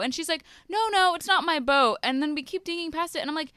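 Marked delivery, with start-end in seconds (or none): 0.7-2.0 mock drunk denial. Drunk woman voiced in retelling.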